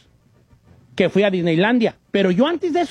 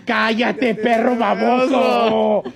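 scolding wife; much slower than usual. Retold or imitated. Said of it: "la esposa va a decir".

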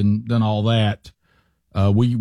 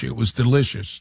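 South African hint; 2 semitones lower than usual. Real, not acted. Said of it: "you sound like you're South African".

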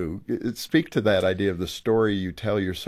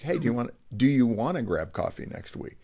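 happier. Shown as a demonstration. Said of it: "I would say it with a little more happiness".

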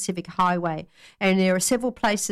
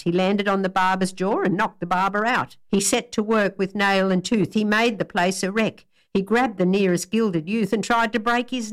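rhythmic ballad reading, storyteller's lilt; spirited recital of an Australian bush ballad; poem recitation. Acted. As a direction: tell it like a bush yarn round the fire.

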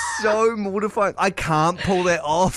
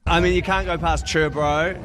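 fast, casual Kiwi slang; broad Kiwi accent; faster than usual. Retold or imitated. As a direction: rattle off chur bro, Kiwi style. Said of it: "most white boy pronunciation of those two words".

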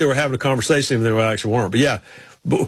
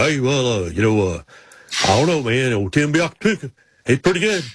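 lightly imitated halting mumbled racer talk; a hint of a halting, rambling driver; Sterling Marlin; 3 semitones lower than usual. Racer giving his Panthers pick, lightly imitated halting talk. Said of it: "He go".

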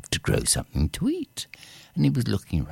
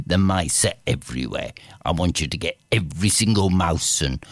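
commanding cat king; 3 semitones lower than usual. Acted. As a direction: give orders like a proud cat king.

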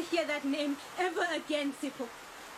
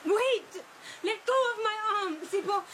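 raised, fast plea to let go; higher, urgent and quick; urgent protest; 4 semitones higher than usual. Acted. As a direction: wrench free and demand to be heard. Pulling her arm free.

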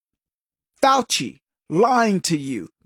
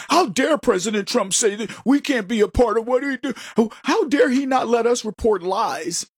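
lightly voiced indignant reporter; mock outraged media. Host mimicking media complaining about Trump, in mild mock outrage. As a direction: play up the huffy outrage. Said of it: "media now that says".

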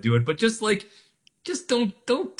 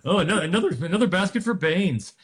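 put-on old-timey radio voice; 5 semitones higher than usual.

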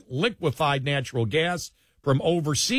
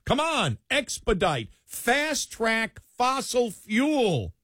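mock pleading; 8 semitones higher than usual. Host as Democrats begging the Trump administration, mock pleading. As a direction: beg urgently in a high mock voice, stretching the last words.

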